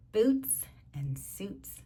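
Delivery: slow, drawn-out rhyme; lingering on the rhyme; savoring the rhyme. Shown as a demonstration. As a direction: stretch the rhyme words slowly. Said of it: "savouring the rhyme".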